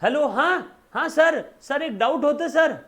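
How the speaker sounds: student ringing the teacher with a doubt, eager; eager student on phone. Retold or imitated. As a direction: play the pushy caller with a doubt. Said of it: "खटाक से phone बजा".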